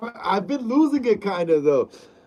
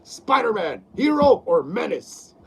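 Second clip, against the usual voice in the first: Jameson impression. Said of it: "Yeah, I can still do the voice".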